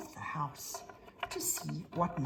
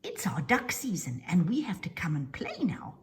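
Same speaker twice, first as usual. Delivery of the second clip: duck voice. Acted. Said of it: "this lovely little duck says".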